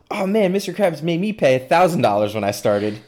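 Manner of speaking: lightly voiced cartoon character, pitched high; a hint of high cartoon voice; SpongeBob cartoon quote. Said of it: "the SpongeBob quote where Patrick gets hired".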